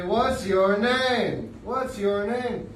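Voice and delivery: coaxing. Shown as a demonstration. Teacher coaxing the puppet.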